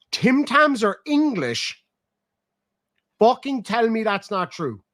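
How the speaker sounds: slow, high, stunned outrage; shocked disbelief. Real, not acted. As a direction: world turned upside down. Shocked by Tim Tam news.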